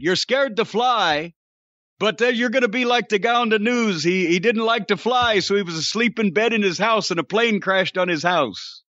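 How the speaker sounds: lightly imitated accent of an old colleague; Ronnie Garvin. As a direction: put on a hint of his accent. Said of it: "in the accent".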